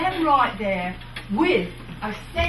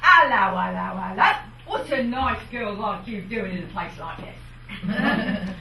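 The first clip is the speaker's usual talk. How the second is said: cheeky Cockney; 4 semitones lower than usual. Shown as a demonstration. Showing fair performers a cheeky Cockney pick-up line with a laugh. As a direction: tease a visitor in Cockney with a laugh. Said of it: "if you were a little cheeky".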